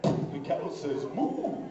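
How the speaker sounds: slow toy-book recital with long moo; talking toy book. Acted. Book in his pants talking mid-spanking, toy voice. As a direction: draw out a swooping animal noise.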